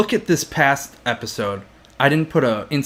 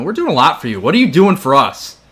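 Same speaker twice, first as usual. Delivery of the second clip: louder demanding challenge to the audience; little crazy outburst; 3 semitones higher, 4 dB louder than usual. Pretend. Podcaster confronts viewers who won't comment, mock outburst. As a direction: build into a mock-indignant demand. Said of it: "you got a little crazy right there".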